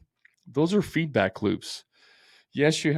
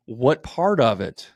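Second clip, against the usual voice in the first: eagerly curious; 5 semitones higher, 5 dB louder, slower than usual. Pretend. Imagined eager reply to critic.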